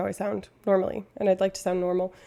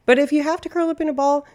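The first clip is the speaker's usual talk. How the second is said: emphatic; 7 semitones higher, 6 dB louder, faster than usual. Real, not acted. Loud emphatic high line.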